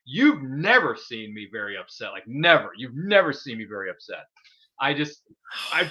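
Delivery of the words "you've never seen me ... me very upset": villain threat. Retold or imitated.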